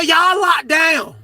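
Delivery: loud barked orders to the pod; officer yelling lockdown. Retold or imitated. Guard ordering inmates to lock down, loud shout. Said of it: "She said".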